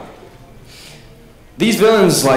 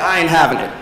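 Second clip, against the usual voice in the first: laughing villain quote. Retold or imitated. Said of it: "you're like".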